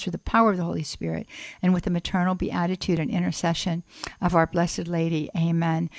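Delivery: heartfelt closing prayer; spoken prayer. Real, not acted. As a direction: bring a petition gently to its close. Resumes and closes the prayer.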